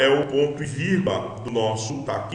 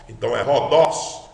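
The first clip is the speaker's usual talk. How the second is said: "rodós" with the final syllable DÓS stressed; 4 dB louder than usual. Shown as a demonstration. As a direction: lean on the last syllable of "rodós". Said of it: "a acentuação está no dós". (tônica forte no DÓS de "rodós")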